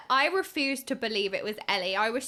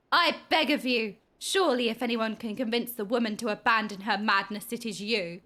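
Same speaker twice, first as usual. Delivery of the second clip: formal plea in a slightly lowered voice; pleading quest-giver; 3 semitones lower than usual. Acted. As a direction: earnestly appeal to the hero. Voices quest dialogue from the game.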